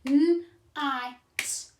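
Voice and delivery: a teacher clapping out "N-I-T" for the class; sounding out night. Shown as a demonstration. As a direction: clap the sounds of night out loud. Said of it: "if you clap again".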